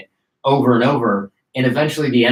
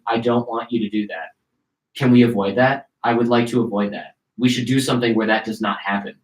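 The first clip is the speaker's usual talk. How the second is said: calm, logical. Retold or imitated. Man trying to avoid a beating, calm. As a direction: answer a threat evenly and reasonably. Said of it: "while remaining calm".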